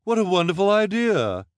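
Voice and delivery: very high, loud gush; exclaiming. A narrator's reading. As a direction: gush it out at full voice. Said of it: "Esme exclaimed".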